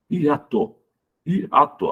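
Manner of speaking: "Hiato" broken between the I and the A; syllable by syllable. Shown as a demonstration. Teacher showing pupils the hiatus, syllables separated. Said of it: "as, as sílabas, né, do hiato".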